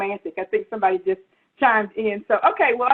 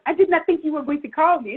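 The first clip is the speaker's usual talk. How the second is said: higher-pitched mock-excited man; imitated excitement; 5 semitones higher than usual. Retelling his reaction to her call, playfully excited. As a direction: act out his eager surprise at the call. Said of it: "And he was so excited".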